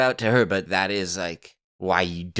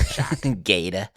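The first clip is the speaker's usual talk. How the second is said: r-less mock Boston accent. Shown as a demonstration. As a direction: demonstrate Boston by dropping the r's. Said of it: "you just don't do the R's".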